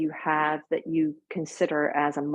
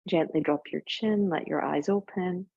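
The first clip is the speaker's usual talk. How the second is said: calm yoga teacher voice with long pauses; guided breathing. Real, not acted. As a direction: guide them gently through each breath, leaving space.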